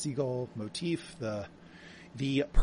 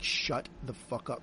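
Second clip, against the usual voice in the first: slow, quiet, menacing "Shut the fuck up"; robber's threat; 2 semitones lower, 7 dB quieter, slower than usual. Retold or imitated. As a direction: lay it out slowly like there's a gun to their head. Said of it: "that's how she says it".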